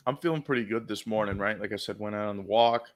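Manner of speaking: talking while chewing; words around a bite of food; mouth full. Real, not acted. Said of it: "What are you eating?".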